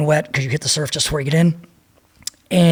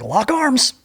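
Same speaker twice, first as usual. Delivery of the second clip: higher, mock barked order; instructor's command; 8 semitones higher than usual. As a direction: call it out like a drill instructor.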